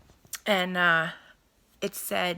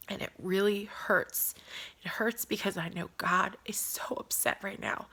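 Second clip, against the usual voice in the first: hushed sorrow. Real, not acted. Emotional confession.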